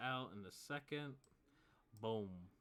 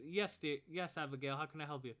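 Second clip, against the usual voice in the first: higher, louder friendly innkeeper; kindly barkeep; 6 semitones higher, 5 dB louder than usual. Acted. Barkeep answering Abigail kindly, higher voice. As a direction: greet her kindly. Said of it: "the barkeep goes".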